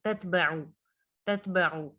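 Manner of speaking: तत बा उ with the उ sounded as a throaty ain; clear ain. Shown as a demonstration. Teacher makes the letter ain distinct, clear ain. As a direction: squeeze the उ from the throat. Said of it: "आइन को वाजे करना है".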